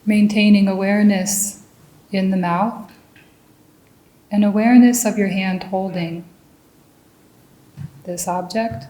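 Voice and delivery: measured meditation guidance with long pauses between phrases; guided meditation. Real, not acted. Meditation teacher leads listeners into mindful raisin tasting, calm guided meditation. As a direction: guide them calmly, leaving room to notice each sensation.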